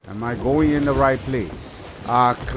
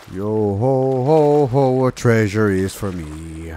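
mock pirate cheer; 4 semitones lower than usual. Pirate cheer on finding treasure.

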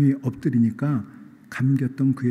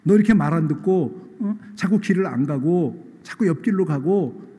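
hammed-up scolding of a stubborn donkey; mock angry scolding; 3 semitones higher than usual. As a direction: nag the donkey in mock fury. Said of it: "지금 발람이 나귀를 향해서 뭐라고 그랬어요?".

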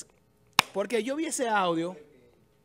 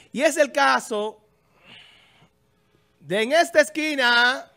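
ring announcer; 2 semitones higher, 6 dB louder than usual. Acted. Boxing-style intro of a fighter.

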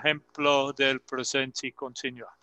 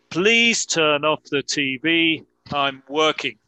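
reading slowly; 4 dB louder than usual. Shown as a demonstration. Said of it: "para que puedan escuchar la pronunciación".

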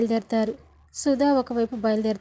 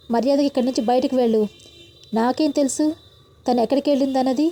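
heated threats; 9 dB louder than usual. A narrator's reading.

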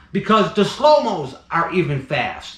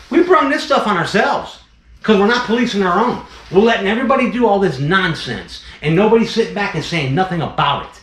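raised, heated and higher, venting at the community; fed-up rant; 4 semitones higher, 3 dB louder than usual. Real, not acted. Breeder scolding careless free handlers, heated and loud. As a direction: let the frustration boil over and push it.

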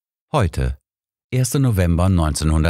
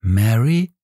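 incredulous; 6 semitones higher than usual. Acted. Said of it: "fragte ich ungläubig".

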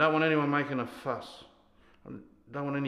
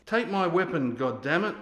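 raised, exasperated command; angry order; 4 semitones higher, 4 dB louder than usual. Acted. Sergeant demands the soldier take his weapon, angrily. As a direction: push the demand hard at a subordinate.

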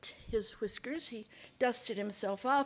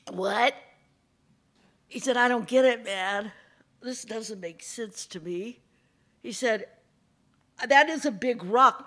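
a hint of a sly fox; 6 dB louder than usual. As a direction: feign not understanding. Fox plays dumb.

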